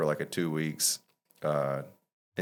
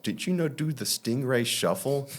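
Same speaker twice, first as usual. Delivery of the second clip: much higher mimicking voice; lightly mocking, high-pitched question; imitated know-it-all question; 9 semitones higher than usual. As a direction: mimic people asking, pitched well up. Mimics people asking a silly question.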